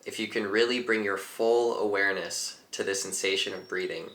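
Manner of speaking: calm teacher leading a breathing exercise; guided meditation. Acted. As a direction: talk them gently into the breath.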